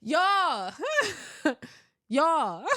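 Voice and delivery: high laughing y'all between laughs; laughing disbelief. Real, not acted. Telling her listeners the pickup line, cracking up.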